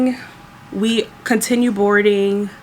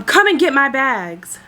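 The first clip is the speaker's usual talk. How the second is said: higher-pitched mock order; imperious retold command, pitched up; imitated rude demand; 5 semitones higher than usual. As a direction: mimic a demanding passenger. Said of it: "you speaking like this".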